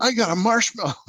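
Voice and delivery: high, loud delighted squeal; like a kid finding treasure; excited kid. Retold or imitated. Child finding cereal marshmallow.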